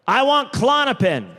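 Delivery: high, eager blurted request; mock patient demand. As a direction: ask high and insistent, as a comic patient. Retold demand to his doctor.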